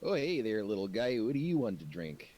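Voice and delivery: lightly voiced Boston skeleton at the bar; skeleton bartender. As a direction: greet the little guy like a friendly bartender. Skeleton bartender greets the creatures.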